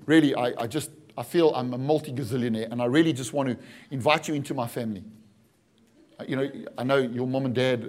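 low, softened coaxing; earnest mock offer. Pastor offering Matthew a new family, gently coaxing. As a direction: make a pretend offer quietly and low. Acts a rich man's adoption offer.

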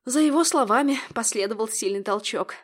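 usual speaking voice

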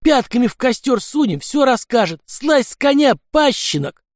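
frenzied threatening shout; furious shout. Acted. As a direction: rage and demand he dismount. Anarchist threatens to torture Lyokha.

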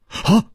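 voiced sigh before speaking. A narrator's reading. Chu Liuxiang sighs facing an unbeatable opponent, sighing. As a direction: let out an "ah" like a sigh. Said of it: "叹了一口气说".

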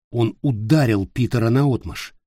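ordinary delivery

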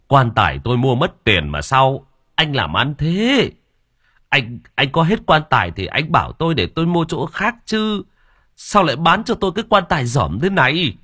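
father scolding the coffin maker, mildly angry; mild anger. Acted. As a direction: scold the coffin seller, getting heated. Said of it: "nổi giận".

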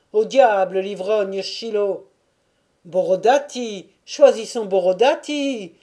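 loud, argumentative outbursts; heated crowd shouts. A narrator's reading. Cossacks quarrelling over candidates, shouting them up or down. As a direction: call names and objections over a crowd.

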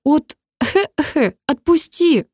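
high, slow, broken by coughs; coughing struggle. Acted. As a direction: choke out the words while struggling. (сквозь кашель, вырываясь)

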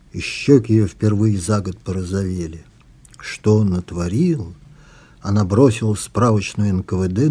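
measured, expressive literary reading; author reading. A narrator's reading. Author reads an excerpt from the book, measured story narration. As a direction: read your own novel aloud, unhurried.

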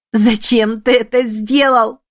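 near-hysterical cry, slow; cried out. A narrator's reading. Emi crying out to dying Shiro, near hysteria. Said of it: "вскричала она, балансируя на краю истерики".

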